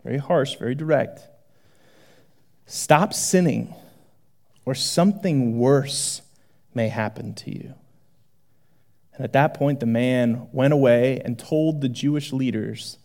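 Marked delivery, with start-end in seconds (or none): 2.7-7.7 slow, quiet, grave Jesus; understated stern warning. Acted. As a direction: deliver it low and firm. Harsh direct Jesus warning.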